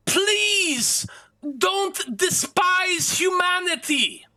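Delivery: very high-pitched, drawn-out pleading shout; anguished yelling. Acted. Game master as agonized woman begging mercy for others, high yelling. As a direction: scream it out high, begging desperately. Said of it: "as she yells".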